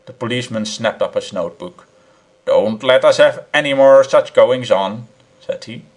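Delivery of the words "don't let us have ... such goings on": stern warning. Acted. Policeman warns.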